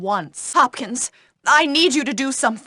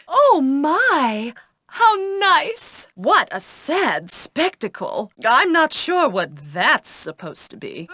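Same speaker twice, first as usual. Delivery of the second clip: disdain; slower than usual. Acted. Teacher sneers at graffiti.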